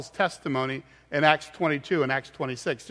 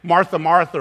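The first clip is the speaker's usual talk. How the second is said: "Martha, Martha" punched louder; emphatic repetition; 5 dB louder than usual. Shown as a demonstration. Preacher giving an example of a doubled name, emphatic. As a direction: stress each "Martha" firmly. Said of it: "there's an emphasis on that".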